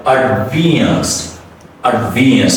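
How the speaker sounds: advanced with the first A reduced and the second A stretched; demo pronunciation. Shown as a demonstration. Teacher modeling the word for a learner, careful demo. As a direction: model it slowly for the student. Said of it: "So the first A is reduced, the next A is stretched".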